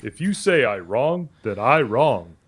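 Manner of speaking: put-on West African pidgin English accent. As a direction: speak with a Nigerian accent. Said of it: "Stop doing the African accent".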